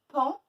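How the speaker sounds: PAN said alone and loud; isolated syllable. Shown as a demonstration. Teacher testing for the A sound, isolated syllable. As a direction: give Pan as one firm separate beat. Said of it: "Où est-ce qu'on entend le A?".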